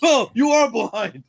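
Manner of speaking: loud, high, slow mock realization; slow shocked realization. Stranger realizing the girl really is hurt, slow mock surprise. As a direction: drag it out as it dawns on him.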